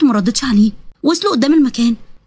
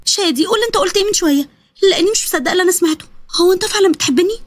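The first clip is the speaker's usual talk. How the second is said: higher, insistent questioning; disbelieving girl; 3 semitones higher than usual. Acted. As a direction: press him for it in a higher voice. Girl demands he repeat his confession. (بنت مش مصدقة بتسأل بإلحاح)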